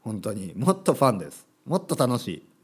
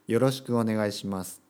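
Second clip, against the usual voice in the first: よろしくお願いします read stiffly, every syllable even and formal; host mocking unnatural textbook Japanese, stiffly recited; stiff textbook line; 3 semitones lower than usual. Shown as a demonstration. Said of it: "そんな話し方しないですよ".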